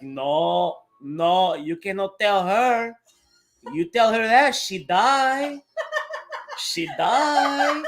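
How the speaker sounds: a hint of an old Cuban grandmother scolding; grandma's Cuban accent. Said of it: "that's just the way she talks".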